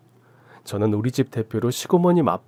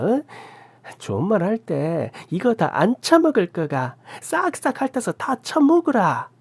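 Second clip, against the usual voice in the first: higher threatening Gyeongsang rant; menacing scolding; 6 semitones higher than usual. A narrator's reading. Aunt forcing leftover food on her, menacing. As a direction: threaten her, shove the words in.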